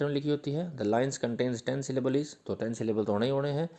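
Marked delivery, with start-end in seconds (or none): 0.8-2.3 slow dictation. Shown as a demonstration. Dictating English definition to students.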